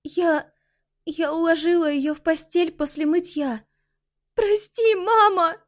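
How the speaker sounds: high, tearful apology; breaking into tears. A narrator's reading. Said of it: "И она расплакалась".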